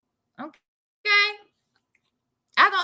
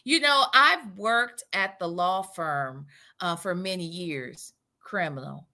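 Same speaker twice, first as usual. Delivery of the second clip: Sonya; 10 semitones lower, 5 dB quieter than usual. Acted. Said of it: "Like how she applies for jobs".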